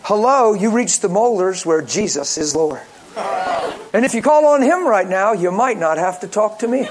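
cheery mock voicemail greeting; answering machine greeting. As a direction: recite your outgoing phone message. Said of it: "what used to be on my phone machine".

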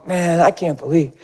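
cool, unruffled mock disbelief; understated, innocent-sounding calm after the screaming; feigned calm. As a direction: play the composed little liar. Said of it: "I stayed so calm".

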